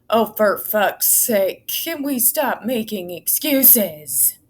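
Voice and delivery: slow, fed-up sigh of a complaint; exasperated. Real, not acted. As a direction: stretch it out in disgust. Exasperated at report's excuses.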